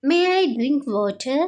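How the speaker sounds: very slow, clear classroom English; slow model phrase. Shown as a demonstration. Teacher modelling the phrase for Telugu students, slow and clear. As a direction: spell it out slowly for learners. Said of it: "అప్పుడు ఇలా అంటారు".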